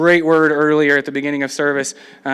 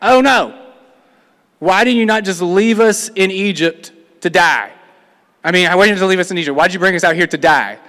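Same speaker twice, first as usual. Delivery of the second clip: mock-panicked Israelites, words tumbling fast; freaking out. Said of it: "they freak out".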